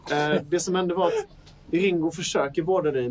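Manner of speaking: ordinary talk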